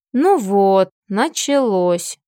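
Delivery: tired, drawn-out resigned line; weary sigh. Acted. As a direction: sigh it out like you've seen this before. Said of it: "устало вздохнул Фил".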